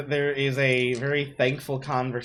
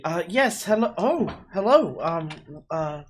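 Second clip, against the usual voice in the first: a flustered, higher mother at the door; 3 semitones higher than usual. Acted. Mother opening the door to strangers, flustered. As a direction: stammer a nervous hello.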